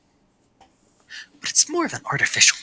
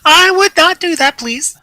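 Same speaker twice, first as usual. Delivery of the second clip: high, worried character voice; high nervous character voice; 7 dB louder, slower than usual. Acted. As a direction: fret upward like a nervous scholar. Same character voice.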